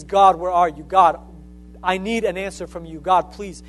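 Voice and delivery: a pleading mock cry of God's name, strongest at the start; Saul crying out. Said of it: "he starts crying out".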